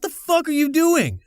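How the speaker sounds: incredulous, annoyed at a call; annoyed friend griping about phone calls; irritated. Retold or imitated.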